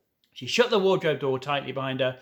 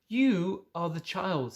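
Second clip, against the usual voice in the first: slow grave faun; 4 semitones higher, slower than usual. Acted.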